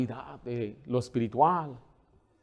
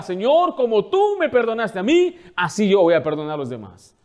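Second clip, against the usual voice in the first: earnest prayer; 5 semitones higher, 5 dB louder than usual. Shown as a demonstration. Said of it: "Y usted diga".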